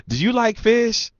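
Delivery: very high mock female voice; imitated flirting woman. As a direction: mimic her springing a question. Mimicking the woman's sudden question.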